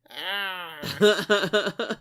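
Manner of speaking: low mock noise of discomfort; imitated grimacing "ah". Imitating children watching the birth, low mock-horrified "ah". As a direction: let out a low, uncomfortable "ah". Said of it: "and they were like this".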